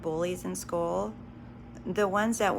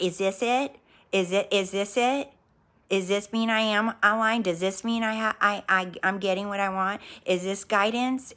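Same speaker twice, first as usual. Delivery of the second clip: anxious; 4 dB louder than usual. Retold or imitated. Anxious seeking questions acted out.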